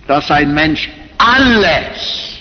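alles drawn out slowly; slow, weighty emphasis on alles; stress on alles. Real, not acted. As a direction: lean heavily on the word alles, stretching it. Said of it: "diese Betonung auf alles".

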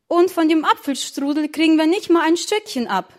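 put-on sulky kid protesting he gets no cake; complaining. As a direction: grumble like a child left out. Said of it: "beschwerte sich Charlie".

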